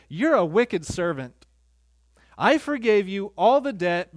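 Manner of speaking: loud, stern royal rebuke; king condemning the wicked servant. Acted.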